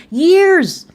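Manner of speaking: sudden high shout of one word; exasperated shout. Real, not acted. Ranting at Kalari about years of harassment, shouting. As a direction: blurt it out high and loud in outrage.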